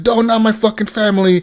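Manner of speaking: high-pitched imitated pleading; mock desperate plea. Captive terrorist pleading for his family, mock desperate. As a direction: act out a captive begging.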